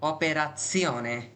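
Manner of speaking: Operazione said very slowly, with zione at the end; slow teacher's model of Operazione; careful slow pronunciation. Shown as a demonstration. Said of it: "একটু উচ্চারণ change হবে".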